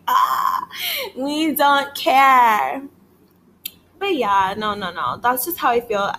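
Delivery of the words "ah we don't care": slow drawn-out yell; dismissive shout. Real, not acted. Dismissing a rapper, shouted.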